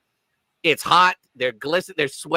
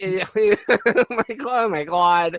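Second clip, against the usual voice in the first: mock dismay; 2 semitones higher, much slower than usual. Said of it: "She's like".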